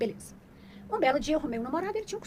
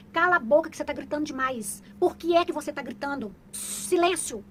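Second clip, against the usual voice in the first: put-on louder, stern telling-off of a noisy kid; mock scolding mother; 3 semitones higher, 6 dB louder than usual. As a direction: scold like a strict mom, a bit mock.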